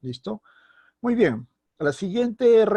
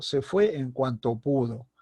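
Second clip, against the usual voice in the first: slow statement with "cuanto" unstressed; simple comment; slower than usual. Shown as a demonstration. Teacher giving an example comment, unemphatic "cuanto". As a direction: say it evenly, no lift on "cuanto". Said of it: "una afirmación o simplemente un comentario".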